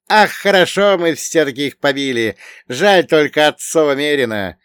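high, loud, animated character voice; sighing young companion. A narrator's reading. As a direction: exclaim it high with a regretful sigh. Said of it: "вздохнул Богдан".

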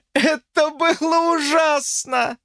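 high, slow teasing exclamation; playfully outraged; mock horror. A narrator's reading. Lucy teasing jealous George in mock horror.

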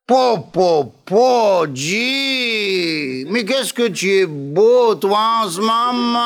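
gushing pied-noir flattery to De Gaulle; exaggerated pied-noir accent, fawning; Pompidou with pied-noir accent. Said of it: "ils ont tous l'accent pied noir maintenant".

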